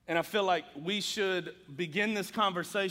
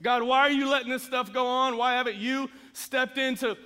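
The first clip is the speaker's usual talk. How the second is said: louder, higher cry of why; frustrated plea; 7 semitones higher, 6 dB louder than usual. Retold or imitated. Church members asking God why he waits, raised frustrated plea. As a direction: voice the congregation's exasperated question. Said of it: "Have y'all wondered that before?".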